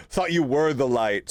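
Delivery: said through a laugh; amused teasing through laughter. Real, not acted. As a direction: chuckle the line out. Laughing at the lantern.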